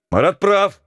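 high, loud shout of support. Acted. Ptitsyn backing Marat before the crowd, shout. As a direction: shout out your agreement. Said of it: "крикнул Птицын".

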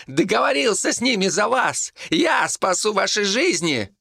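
monk shouting his offer to the village. A narrator's reading. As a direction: keep yelling the bargain. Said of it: "закричал Тасник".

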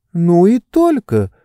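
usual speaking voice

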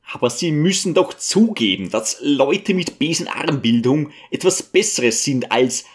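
a touch of confused stammering. Acted. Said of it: "stammelte Wanarwa verwirrt". (leicht verwirrtes Stammeln)

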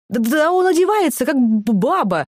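high, loud indignant cry; shouting. A narrator's reading. Natasha outraged at the singer's clothes, high shout. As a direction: yell it in outrage. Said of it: "кричала Наташа".

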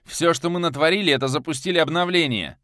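high, loud snarled retort; angry growl. Acted. The hero snarls back at Viktor, loud. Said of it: "Зло прорычал я".

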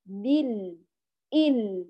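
بال with the l sounding only briefly; measured lam. Shown as a demonstration. Teacher shows the right way, lam held only slightly. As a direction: let the l of بال flow a little, then stop. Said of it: "نقول هكذا".

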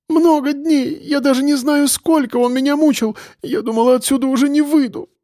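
sobbing. A narrator's reading. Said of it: "рыдала Катя".

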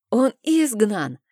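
loud, high, slow insistent cry; shouting. A narrator's reading. Uncle shouts at the priestess, insisting. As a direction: hammer the word изгнан as proof. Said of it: "кричал дядя".

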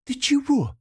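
sharp, high angry question; angry snap. Acted. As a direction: glare and snap at her. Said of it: "зло посмотрела на неё Ниела".

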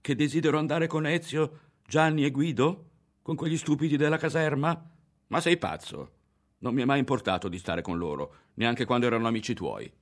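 put-on high, loud, outraged girl; girl protesting she is innocent; indignant denial. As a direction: throw the accusation back at him. Girl indignantly denies the accusation.

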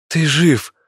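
high relieved cry; joyful exclamation. Acted. Martin sees the rat alive, relieved high exclamation. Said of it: "воскликнул Мартин".

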